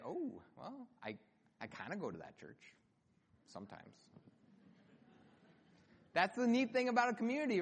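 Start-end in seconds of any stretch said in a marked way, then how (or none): 0.1-4.0 awkward, hesitant, sinking to very soft; reluctant admission. Acted. Churchgoer embarrassed to admit their church, reluctantly.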